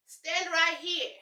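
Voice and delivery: slow, firm order to the elephant; slow command. Pretend. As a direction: order it slowly and firmly. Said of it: "because I'll command".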